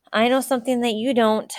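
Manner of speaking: loud, high teasing call. A narrator's reading. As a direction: tease him from across the bank. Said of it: "Katie called again".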